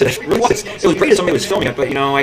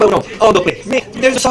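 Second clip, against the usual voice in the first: put-on higher, botched English accent; English accent that falls apart; attempted English accent; 4 semitones higher than usual. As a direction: have a poor go at an English accent. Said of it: "I can't even do that fucking English accent".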